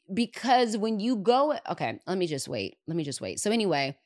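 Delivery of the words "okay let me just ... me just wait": softer, calming herself. Real, not acted. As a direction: take a breath and settle. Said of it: "fires me up".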